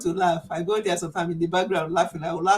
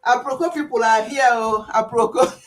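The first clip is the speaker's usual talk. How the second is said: excited greeting; 4 semitones higher, 6 dB louder than usual. Retold or imitated. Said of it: "She will say".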